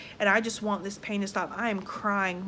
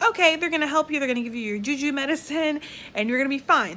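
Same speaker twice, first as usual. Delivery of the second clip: higher, louder mock-mom reassurance; reassuring mom; 5 semitones higher, 4 dB louder, faster than usual. Mom reassures daughter in labor about the juju medicine, imitated reassurance. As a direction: imitate an upbeat mom soothing her daughter. Mom's upbeat reassurance acted out.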